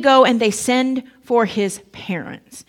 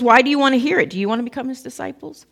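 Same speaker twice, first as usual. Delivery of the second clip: sarcastic; 2 semitones higher, faster than usual. Retold or imitated. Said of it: "he gets a little sarcastic".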